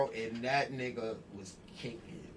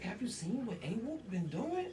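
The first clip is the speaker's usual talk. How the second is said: mock Megan voice; 8 semitones higher than usual. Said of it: "So she was like".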